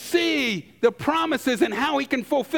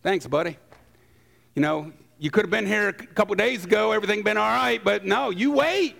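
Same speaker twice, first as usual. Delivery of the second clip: sarcastic thanks; faster than usual. Retold or imitated. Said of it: "I can only imagine him saying".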